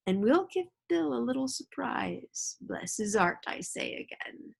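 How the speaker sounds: sly pirate coaxing the boy, lightly voiced; pirate Black Dog, wheedling. Pirate stranger coaxing young Jim, sly wheedling voice.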